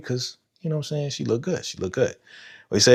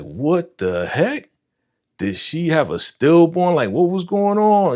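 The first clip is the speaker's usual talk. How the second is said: rising alarmed disbelief, pitch climbing higher; shocked alarm; 7 semitones higher, 3 dB louder than usual. Retold or imitated. Retelling his shock watching the baby not cry, rising alarm. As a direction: react like the baby isn't breathing, higher with each question. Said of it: "I'm like".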